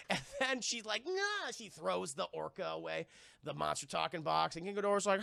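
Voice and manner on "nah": high-pitched effort noise; short comic heave; imitated throwing grunt. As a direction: let out a little cry while flinging something.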